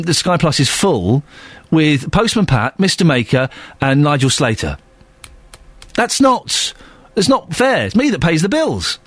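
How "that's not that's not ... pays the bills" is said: high, whiny mock complaint; mock protest. Husband moaning about the full Sky Plus, mock protest. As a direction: plead the injustice, pitched well up.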